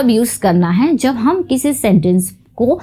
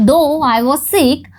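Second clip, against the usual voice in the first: very slow, each word separate; slow dictation; 3 semitones higher, much slower than usual. Shown as a demonstration. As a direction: read "though I was sick" slowly for the class. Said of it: "teacher rereads example sentence". (बहुत धीरे, dictation की तरह)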